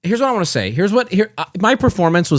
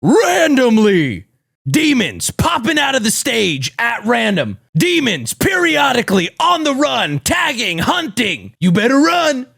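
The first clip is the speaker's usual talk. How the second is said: projected; 2 semitones higher than usual. Acted. Re-recording trailer about demons, projected dramatic announcer. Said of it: "make it sound, like, projected".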